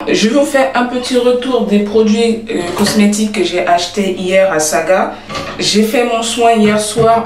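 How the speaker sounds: echoing off bathroom tiles. Real, not acted. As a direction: voice ringing in a small tiled room. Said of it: "désolé si ça résonne, je suis dans la salle de bain". (écho de salle de bain)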